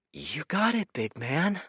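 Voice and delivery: soothing. Acted. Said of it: "trainer ... spooked lion".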